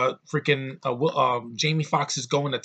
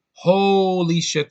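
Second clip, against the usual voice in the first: exasperated exclamation; 6 semitones higher, 8 dB louder, much slower than usual. Real, not acted. Complaining movie is too long.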